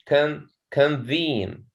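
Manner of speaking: "convene" said slowly in parts, weight on VENE; teacher's slow con-VENE, second syllable stressed. Shown as a demonstration. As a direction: draw out con-VENE for the class. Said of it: "the stress is here at the second syllable".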